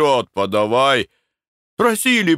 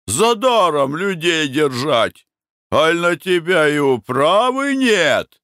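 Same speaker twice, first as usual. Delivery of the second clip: crowd shouting; 9 semitones higher, slower than usual. A narrator's reading. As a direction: shout your demand at the master. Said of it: "Громче прежнего кричали рабочие". (рабочие громко кричат хозяину, требуя расчёта)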